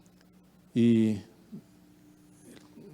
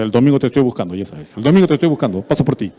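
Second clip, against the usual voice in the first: 1 invitación insistente; 8 dB louder, much faster than usual. Retold or imitated. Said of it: "eso no funciona".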